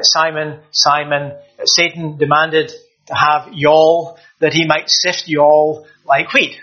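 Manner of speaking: slow, light Southern US drawl on y'all; preacher lightly voicing the verse in a Southern US accent. Preacher shows how the Southern US would say it, slow mock Southern US accent. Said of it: "if we were in the southern states".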